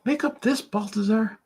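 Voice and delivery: very high-pitched heckler voice; heckling critic. Acted. Critic interrupts the artist's news, high-pitched heckling. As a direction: jeer at the artist in a squeaky put-on voice. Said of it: "hope that critic leaves me alone".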